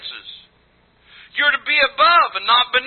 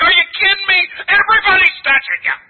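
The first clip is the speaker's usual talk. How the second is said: higher, louder, disbelieving; incredulous disciples; 8 semitones higher, 4 dB louder than usual. Retold or imitated. Preacher voicing disciples scoffing at Jesus, raised disbelief. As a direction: throw it back like it's obvious. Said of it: "the disciples are like".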